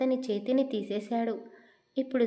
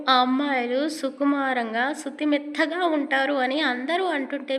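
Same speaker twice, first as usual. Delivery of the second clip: teasing grumble; 2 semitones higher than usual. Acted. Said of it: "గట్టిగానే అన్నాడు పైకి".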